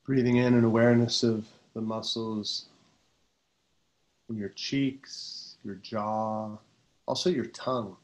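calm, unhurried meditation voice, often settling low; guided meditation. Real, not acted. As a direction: guide them gently into relaxation, pausing between phrases.

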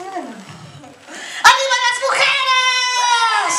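high, loud, slow cheer breaking into laughter; laughing rally shout. Shown as a demonstration. Clown cheering for women, laughing through the shout. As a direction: yell it while cracking up. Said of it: "No sé".

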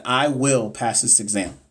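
slow, steady affirmation; slow, calm self-affirmation; affirmation demo. Shown as a demonstration. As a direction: say I will pass this exam like you mean it. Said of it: "say it out loud".

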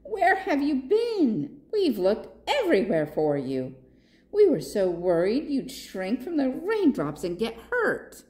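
mild worried giraffe. Acted. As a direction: let the worry spill out. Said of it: "cried Gilda".

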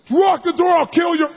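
high, loud mock scream of a threat. Richard screaming at John to lock the door. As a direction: yell the threat at your partner. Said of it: "He starts screaming at John".

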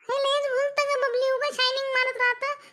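put-on girl's friend voice. Friend voice speaks higher.

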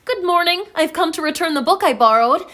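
cheerful Belle. Retold or imitated. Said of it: "now I'm Belle".

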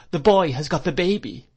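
loud, high alarm; horrified cry. A narrator's reading. Miss Murdstone limp with horror, crying out. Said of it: "cried Miss Murdstone".

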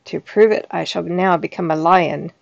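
loud, proud ogre boast; the ogre shows off, booming; boastful ogre. Acted.

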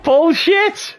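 outraged, high-pitched shout; angry yell. Real, not acted. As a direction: blurt it out in fury. Raging at a video game.

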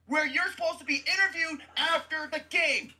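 venting fury at the player; angry rant. Real, not acted. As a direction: tell him off with real heat. Ranting at absent player.

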